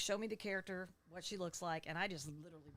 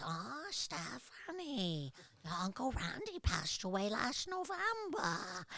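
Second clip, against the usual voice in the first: put-on sing-song Polish accent, drawn out; 5 semitones higher, 4 dB louder than usual. Speaker shows the voice borrowed from a Polish Rhode Island aunt: imitating Aunt Manya's voice. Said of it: "she kind of she talked like this".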